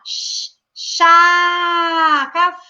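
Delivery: put-on a light toddler voice stumbling on words; imitating a toddler. Teacher imitates a toddler saying its first words, lightly voiced. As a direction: mimic a little child trying to speak. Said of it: "Aí a criança vai falar".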